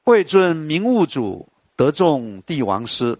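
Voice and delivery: slow, measured verse reading; poem recitation. Shown as a demonstration. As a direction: savour each syllable of the line. Recites poem lines slowly. (慢速吟诵诗句)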